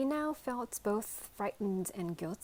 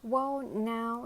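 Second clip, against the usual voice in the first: touched; 4 semitones higher, 5 dB louder than usual. A narrator's reading. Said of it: "sounding touched".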